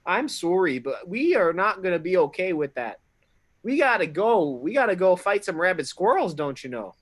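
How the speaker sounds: mock Canadian bluster at the guard; Canadian accent. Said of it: "I am not from Fantasy Canada".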